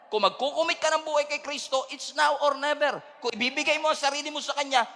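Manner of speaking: high, loud preaching at full force; fiery Taglish sermon, rising to shouts. Acted. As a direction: preach it out, pushing the crowd.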